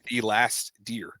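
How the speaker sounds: deliberate retold order, word by word; measured, emphatic instruction; insistent arguing. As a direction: spell it out firmly, with pauses. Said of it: "We're sitting there arguing".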